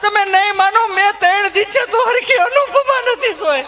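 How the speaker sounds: high, chatty rustic wife voice; high housewife rant about husband and kids; village housewife. Retold or imitated. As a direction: gossip and grumble like a harried mother. Held housewife character.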